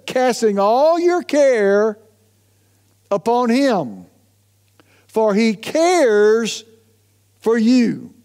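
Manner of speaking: slow, deliberate reading of scripture. Shown as a demonstration. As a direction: read it out slowly and solemnly, word by word. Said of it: "First Peter chapter five, verse seven".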